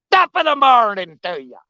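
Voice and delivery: a lightly done Irish accent, sliding toward pirate. Shown as a demonstration. Greeting a friend on the bank, mild Irish accent. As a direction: try an Irish brogue, ham it gently. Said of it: "Every time I try to do my Irish accent".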